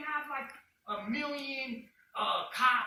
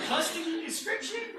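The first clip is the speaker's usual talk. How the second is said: louder, higher disbelieving question; retold incredulity; 7 semitones higher, 6 dB louder than usual. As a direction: echo it back as if absurd, pitched up. Retold incredulous echo of officer.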